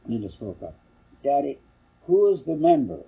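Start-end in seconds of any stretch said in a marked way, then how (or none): 1.2-3.0 put-on high, loud child's question; little girl voice. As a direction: ask like a curious small girl. Little girl asks father.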